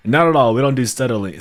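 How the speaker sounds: playful outraged protest; mock indignant denial. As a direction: bark it like an offended dwarf. Jokingly denying studying.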